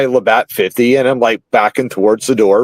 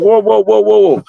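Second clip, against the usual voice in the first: mock alarm; 8 semitones higher, 3 dB louder than usual. Backing off the aggressor.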